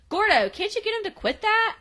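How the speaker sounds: put-on high-pitched exasperated girl; mock exasperated whine to a friend; exasperated plea. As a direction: complain up high, retelling a fed-up sitter. Voicing exasperated babysitter's complaint.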